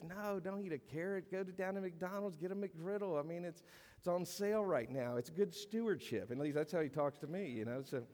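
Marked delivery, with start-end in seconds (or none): 0.0-6.3 higher, coaxing tempter, lightly voiced; tempting old man voice. The old sinful self coaxing the believer, higher lightly voiced tempter. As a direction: sweet-talk them toward the donut shop. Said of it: "this dead man starts talking to you and say".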